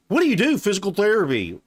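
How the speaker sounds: very high, loud mock quote; mocking incredulity. Parroting the dating coach's example line, mockingly incredulous. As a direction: throw the question back in disbelief.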